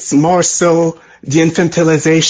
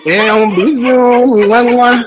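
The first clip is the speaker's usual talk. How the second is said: French kiss-off; 8 semitones higher, 4 dB louder, slower than usual. Acted. Caller blows kisses in French.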